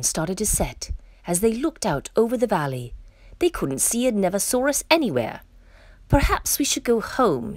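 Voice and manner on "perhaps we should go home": nervous little storybook voice, pitched high; a touch of shivery worry; shivering. A narrator's reading. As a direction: suggest it timidly in a high voice. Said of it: "shivered Baby Kong".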